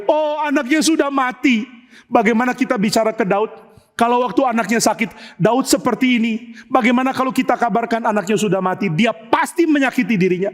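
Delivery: acted fretful alarm; alarmed servants. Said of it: "semua orang takut".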